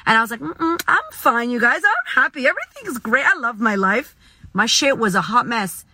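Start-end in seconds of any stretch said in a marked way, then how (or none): 0.4-4.2 fake cheerful. Her old self pretending to friends she's fine, mock cheerful. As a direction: brush it off with forced cheer.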